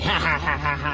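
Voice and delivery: imitated cheeky laugh on spaced ha-has; put-on taunting chuckle; mock kid laughter. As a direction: laugh teasingly like a naughty kid. Imitates kid laughing at his mom.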